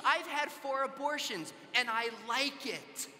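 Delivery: slow, lightly taunting boast; retold mocking. Girl's friend taunting a pro-life man, retold with slow mockery. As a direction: imitate someone mocking, drawing the words out. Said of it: "They start mocking me".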